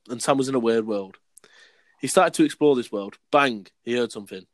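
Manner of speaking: deliberate schoolboy-story reading; story read aloud. Acted. Reading his old school story to friends, read-aloud voice.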